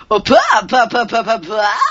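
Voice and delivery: high, loud hammed-up cute chant; cutesy baby voice. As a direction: ham up a cute aegyo imitation. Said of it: "new Aegyo imitation for you".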